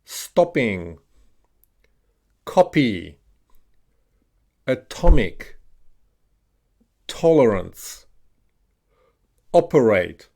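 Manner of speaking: each word alone with the O of "top", as in "copy"; "atomic" with short O, falling tune; short O modelled. Shown as a demonstration. Teacher has learners repeat short O words, careful drill delivery. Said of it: "O as an O, as in top".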